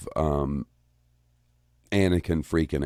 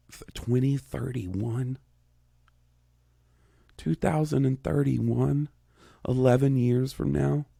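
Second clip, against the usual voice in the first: rising disbelief; 7 semitones higher than usual. Real, not acted. Host counting future ages aloud, voice climbing in alarm. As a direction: let the pitch climb as the numbers sink in. Age math spiralling into panic.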